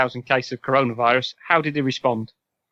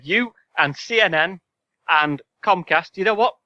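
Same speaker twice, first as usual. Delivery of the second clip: Trump impression; 4 semitones higher than usual. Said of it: "you've done an excellent Donald Trump impression".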